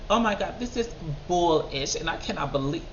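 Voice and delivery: light mock of a housewife's outburst; voicing a white housewife. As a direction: act mildly outraged, lightly. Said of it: "she's like".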